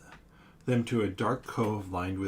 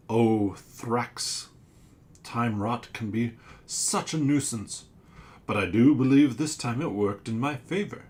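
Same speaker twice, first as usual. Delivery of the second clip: louder, knowing monster; sea creature voice; 6 dB louder than usual. Acted. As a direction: lord it over the crew a little.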